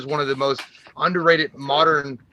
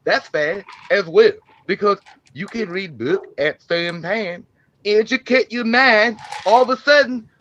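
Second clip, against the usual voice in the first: lightly voiced Slender Man character. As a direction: give a laid-back pep talk as Slender Man. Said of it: "Slender Man well wishes for Deborah Grover".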